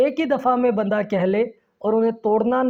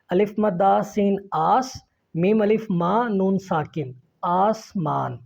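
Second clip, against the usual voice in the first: आसमान spelt out, then said in two parts, आस and मान; broken into syllables; slower than usual. Shown as a demonstration. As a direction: break आसमान after आस, spelling each part first. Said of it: "हम उनको तोड़ तोड़ के पढ़ते हैं". (आसमान को तोड़-तोड़ कर, आस और मान)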